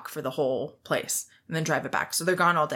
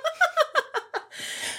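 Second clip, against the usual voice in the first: high laugh. Real, not acted. Laughs at awful boss story.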